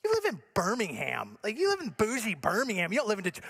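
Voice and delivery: mock incredulous, lightly voiced; teasing disbelief at a suburbanite; scoffing correction. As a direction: call out the suburb claim with a scoff. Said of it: "People say it all the time".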